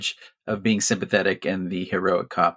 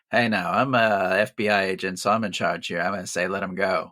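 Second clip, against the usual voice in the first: lightly voiced, lower-pitched agent in charge; FBI agent; 3 semitones lower than usual. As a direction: take charge in a lower register. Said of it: "when the F B I goes like".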